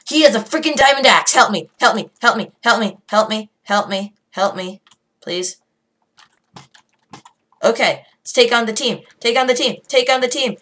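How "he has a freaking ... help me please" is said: panicked plea. Real, not acted. Player begging another player for help, panicked plea. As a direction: yell out in a panic. Calls for help against armed attacker.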